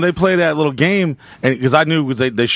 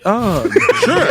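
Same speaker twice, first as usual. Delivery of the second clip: mock eager agreement; 8 semitones higher than usual. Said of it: "And I was like".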